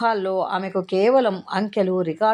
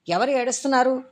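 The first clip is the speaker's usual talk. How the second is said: sharp, higher call into the dark; loud demand; 7 semitones higher than usual. Acted. Warden calling into the dark dormitory, stern and loud. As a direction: demand an answer, loudly. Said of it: "మళ్ళీ గట్టిగా అడిగింది సరోజిని".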